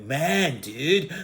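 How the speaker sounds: drawn-out stoner-dude tune; Cheech and Chong. Retold or imitated. Reviewer showing who they sound like, stoner-dude impression. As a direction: do a stoner duo's lazy exchange. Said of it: "it sounds like Cheech and Chong".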